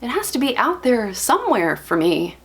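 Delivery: desperate to be reassured, voice lifted; pleading hope. Acted. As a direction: build the hope, then falter into questioning. Acted plea that love exists.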